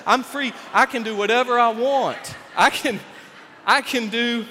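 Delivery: carefree hippie bragging. Retold or imitated. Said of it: "that hippie voice".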